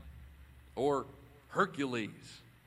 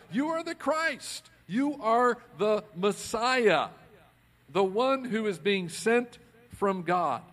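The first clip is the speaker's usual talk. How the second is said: high, slow, louder proclamation bursting out; excited blurting; 6 semitones higher, 6 dB louder, slower than usual. Retold or imitated. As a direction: blurt it out like a sudden revelation. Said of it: "Peter is the one who blurts it out".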